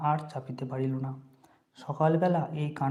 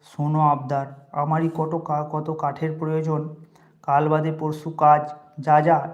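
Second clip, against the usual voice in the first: loud, irritated brush-off; annoyed; 4 dB louder than usual. Acted. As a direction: shoo him away, louder at the end. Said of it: "বিস্মিত ও বিরক্ত হইয়া কহিলেন". (বিরক্ত হয়ে জোরে তাড়িয়ে দেওয়া)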